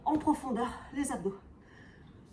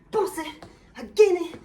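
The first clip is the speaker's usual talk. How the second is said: louder and higher, urging effort; loud coaching; 3 semitones higher, 4 dB louder than usual. Real, not acted. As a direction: drive them to squeeze harder. Coach urging class during exercise.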